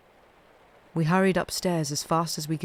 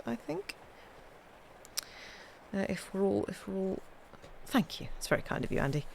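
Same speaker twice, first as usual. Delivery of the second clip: 1 softly winding down; 3 semitones higher, 9 dB quieter than usual. Real, not acted. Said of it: "winding down softly".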